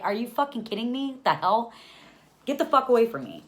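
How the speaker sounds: high, loud outraged outburst; indignant, then drive him away; incredulous anger. Retold or imitated. Mother to the advice-giving stranger, incredulous anger.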